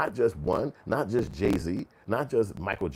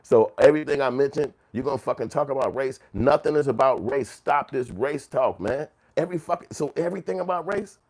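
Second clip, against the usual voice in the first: louder, mock fed-up complaint, climbing higher at the end; imitated exasperated objection; 3 semitones higher, 5 dB louder than usual. Imitating people tired of race talk, exasperated. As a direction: mimic someone sick of hearing it. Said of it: "That's basically what they wanna tell us".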